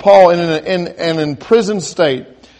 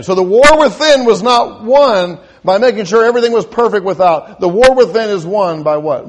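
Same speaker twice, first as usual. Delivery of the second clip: preaching emphasis; 4 semitones higher, 4 dB louder than usual. Real, not acted. Preacher drives home his point.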